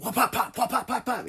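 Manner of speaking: high, mock little girl punching pads; kid punching mitts. Daughter hitting mitts, acted out.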